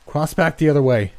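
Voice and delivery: high, strained rasping call; rasped, out of breath. A narrator's reading. Exhausted swimmer directing friends across the river, rasping. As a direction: rasp it urgently, too winded to yell. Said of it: "I rasped, breathing too hard to yell".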